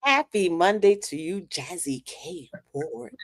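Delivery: lightly put-on radio voice, slow and drawn out. Greeting co-host Jazzy K on air, playful radio voice. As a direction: stretch it like a radio host's greeting. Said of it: "get my radio voice on".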